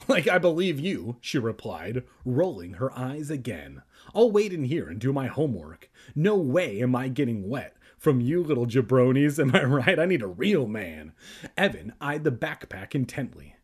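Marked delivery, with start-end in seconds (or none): 0.1-11.1 put-on sassy girl voice. Sassy bratty girl role.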